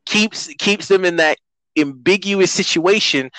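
rising exasperation, voice climbing high; exasperated. Real, not acted.

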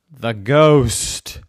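loud, drawn-out reveal of the feared thing; scared confession. A narrator's reading. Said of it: "I'm scared of".

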